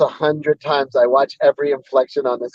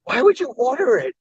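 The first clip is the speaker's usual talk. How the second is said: high-pitched disbelieving question; incredulous; 9 semitones higher than usual. Retold or imitated. Imitating Alex reacting to the milkshake order, incredulous. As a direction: imitate a baffled friend, pitch jumping up. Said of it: "like, incredulous".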